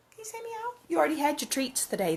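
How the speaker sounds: high, gently scolding pet voice. Real, not acted.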